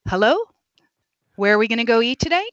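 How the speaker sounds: lightly voiced Valley Girl, rising into questions. Therapist mimicking insecure upspeak, lightly voiced Valley Girl. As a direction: tilt the end up like a Valley Girl. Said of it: "It's the old Valley Girl".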